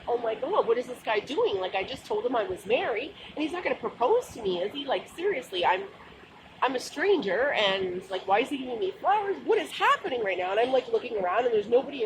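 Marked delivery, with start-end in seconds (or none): 0.1-10.5 higher, rushed disbelief; panicked inner thoughts. Retold or imitated. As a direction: replay the rising panic of the moment.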